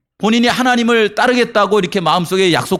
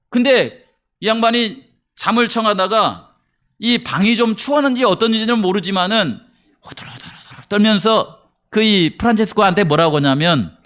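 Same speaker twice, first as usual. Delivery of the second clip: ordinary delivery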